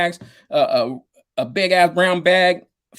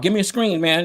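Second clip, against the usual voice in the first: imitating Roger; 4 semitones higher than usual. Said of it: "That's how he talked".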